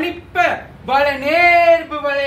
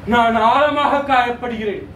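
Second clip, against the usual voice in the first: lower-pitched, subdued declaration of hurt; deeply hurt; 3 semitones lower than usual. Acted. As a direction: state a deep wound in a lowered voice. Declaration of hurt, first take.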